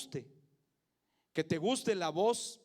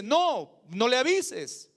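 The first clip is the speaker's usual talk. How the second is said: louder, higher, drawn-out protest; emphatic objection; 3 semitones higher, 6 dB louder, much slower than usual. Acted. Church visitor objecting to the pastor being told, emphatic protest. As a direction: object firmly, dragging the words out.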